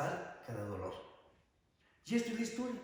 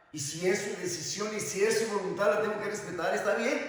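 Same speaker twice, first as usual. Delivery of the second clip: emphatic acceptance; 5 semitones higher, 4 dB louder than usual. Acted. Acted acceptance of a partner leaving.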